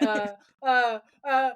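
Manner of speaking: imitated awkward stalling; drawn-out, helpless uhs, mimicking someone caught out. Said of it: "it's so awkward".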